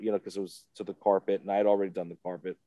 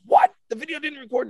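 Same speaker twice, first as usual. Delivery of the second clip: high-pitched, incredulous question; retold astonishment; shocked disbelief; 8 dB louder than usual. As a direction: react aghast, pitch shooting up. Retold shocked reaction to news.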